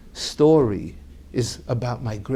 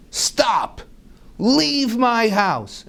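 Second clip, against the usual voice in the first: stern command; 9 semitones higher, much slower than usual. Retold or imitated. Husband ordering wife out.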